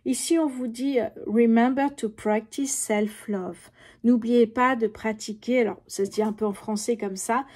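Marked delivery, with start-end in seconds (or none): 1.3-3.7 slow card reading in English with a French accent. Shown as a demonstration. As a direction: spell out the English line slowly, with a French accent. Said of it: "excusez mon accent". (anglais lu lentement avec un accent français)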